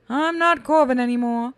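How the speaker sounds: flat mechanical robot voice. Acted. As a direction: speak like a cold machine. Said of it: "He gets the robot voice".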